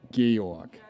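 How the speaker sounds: Georg said the German way, gay-ork. Shown as a demonstration. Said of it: "in German".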